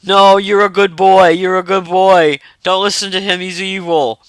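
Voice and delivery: calm him like a kind dog; gentle dog. Retold or imitated. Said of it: "And the dog was like".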